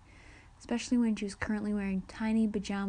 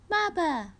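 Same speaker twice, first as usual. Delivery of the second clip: put-on high, louder baby squeal; little one's high-pitched cry out; 9 semitones higher, 5 dB louder than usual. A narrator's reading. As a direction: squeal it like a baby calling for mother. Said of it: "The kid squealed again".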